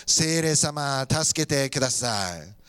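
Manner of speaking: very slow, low, drawn-out plea; congregational prayer. Shown as a demonstration. Congregation being led to ask the Spirit for help, congregational prayer. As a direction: stretch each phrase so everyone can join. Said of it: "みんなで言ってみましょう".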